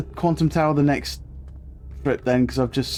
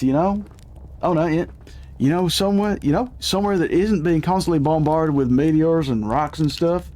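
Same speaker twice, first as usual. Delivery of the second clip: upbeat character voice; 2 semitones higher than usual. Acted. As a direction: play an eager young explorer. Voicing a cheerful game character.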